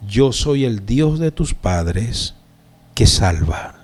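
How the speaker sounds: slow declaration, sinking low at the end; voice of God. Acted. Preacher voices God speaking to Saulo, slow and solemn. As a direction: declare it slowly, dropping on the last words. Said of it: "Dios le está diciendo a él".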